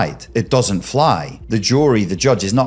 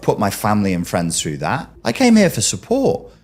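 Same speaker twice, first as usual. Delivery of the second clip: high, defiant imagined comeback; indignant pushback; 4 semitones higher than usual. Retold or imitated. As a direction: push back hard, offended and indignant. Imagined victim pushing back indignantly.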